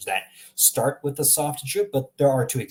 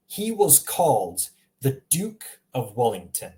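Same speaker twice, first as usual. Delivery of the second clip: American accent, slow careful demo, "Duke" as dook; American English. Shown as a demonstration. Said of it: "in American English, they would say".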